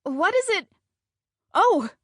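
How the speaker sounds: lightly voiced chipper old lady; a hint of a brisk old woman, fast. Joyce answers again.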